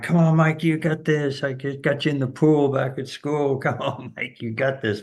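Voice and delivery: imitating a rowdy fan yelling from the crosswalk; mock screaming fan. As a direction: yell like a heckling college fan. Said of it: "this guy starts screaming at Mike".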